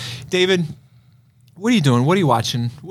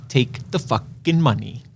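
blunt Logan Roy line; 3 semitones lower, slower than usual. Retold or imitated. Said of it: "And he says".

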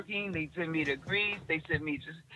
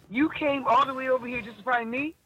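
higher-pitched incredulous question; retold disbelief; 6 semitones higher, 3 dB louder than usual. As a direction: imitate someone amazed and touched by the effort. Bowie in disbelief at her journey.

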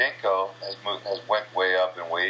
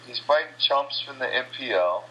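higher-pitched, worked-up rant; fired up; 6 semitones higher than usual. Real, not acted. Fighter venting about the world champion, fired up. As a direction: vent with real heated energy. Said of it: "now I'm getting fired up".

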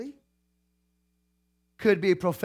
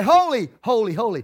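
retold cry, starting raised, then falling away. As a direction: call it out, then let it drop. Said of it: "The seraphim cry".

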